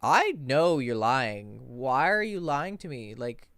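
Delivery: slow, emphatic confrontation; retold exasperation. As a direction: call out the liar, drawing words out. Confronting a blatant liar, retold.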